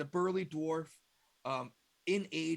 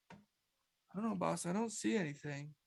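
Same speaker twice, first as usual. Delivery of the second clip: secretary reporting back; 3 semitones higher, slower than usual. Acted.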